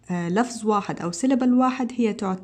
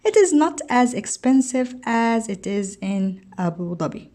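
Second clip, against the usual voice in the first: slow textbook reading; slower than usual. Shown as a demonstration. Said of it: "teacher reads textbook answer aloud".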